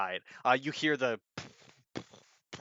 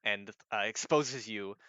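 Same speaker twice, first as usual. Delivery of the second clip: ordinary talk, nothing marked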